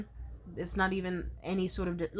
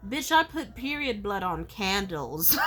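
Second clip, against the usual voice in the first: laughing outburst; slower than usual. Real, not acted.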